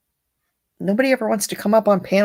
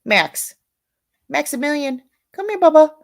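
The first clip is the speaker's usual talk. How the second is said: high, louder call to the dog; louder, higher dog call; 9 semitones higher, 3 dB louder than usual. Real, not acted. Calling her dog.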